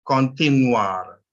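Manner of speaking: continuar stretched out slowly; syllable division demo. Shown as a demonstration. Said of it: "the division is made before the last consonant".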